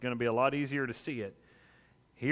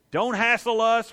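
mock shoo; 6 semitones higher, 6 dB louder than usual. Disciples shooing people away.

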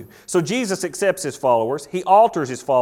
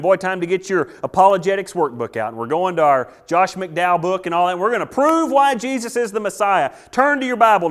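eager arguing; 2 semitones higher, 4 dB louder than usual. Acted. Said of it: "You're trying to prove to him".

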